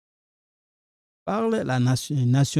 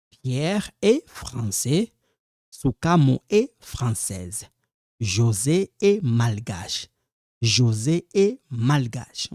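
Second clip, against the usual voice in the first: slow model pronunciation. Shown as a demonstration. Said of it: "when you pronounce this, you're gonna hear me".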